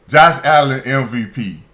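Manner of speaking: loud flat scoff, name thrown out in disbelief; incredulous. Real, not acted. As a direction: say it like it's a joke you can't believe. Scoffing at Allen MVP claim.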